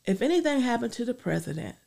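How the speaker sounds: earnest spoken prayer. Acted. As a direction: pray it out sincerely. Leads a closing prayer.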